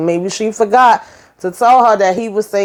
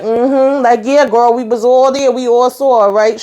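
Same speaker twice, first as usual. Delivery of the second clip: sassy agreement; 5 semitones higher than usual. Retold or imitated. Andy agreeing with sass.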